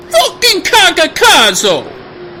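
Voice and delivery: slow, drawn-out angry yell; shouted curse. Acted. Persona curses, shout heard.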